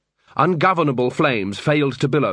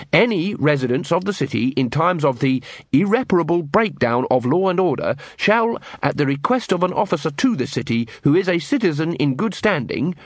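official reading; 4 semitones higher than usual. Acted. Carrot reads out the law.

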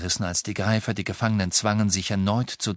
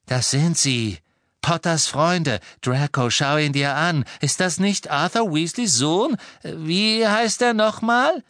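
loud, higher, eager father; excited urging; 8 semitones higher, 5 dB louder than usual. A narrator's reading. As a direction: press your son to confirm it. Excited father pressing his son. (aufgeregt drängend)

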